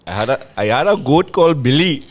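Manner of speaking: lightly put-on Indian accent. Shown as a demonstration. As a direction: start a story in an Indian accent. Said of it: "tell a story in an accent".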